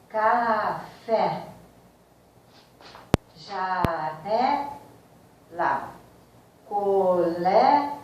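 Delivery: slow, drawn-out words said with the nostrils held shut; nose pinched. Shown as a demonstration. Teacher showing students the stressed syllable, slow with nostrils pinched. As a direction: stretch each word out slowly with the nose pinched. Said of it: "tapa-se a narina e pronuncia-se a palavra".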